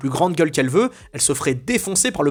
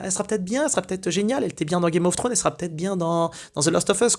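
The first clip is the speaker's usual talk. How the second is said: higher and softer, wide-eyed optimism; naive hope; 3 semitones higher, 4 dB quieter than usual. Pretend. Mimicking the casting team's naive hope, higher and softer. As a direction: play the innocent who thinks it might work out. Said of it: "en mode, bah".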